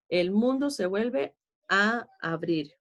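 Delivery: "El mundo se vuelve a abrir" slowly, "a" held apart from "abrir"; slow down, small break between "a" and "abrir"; measured verse reading with "a / abrir" separated; slow rereading. Shown as a demonstration.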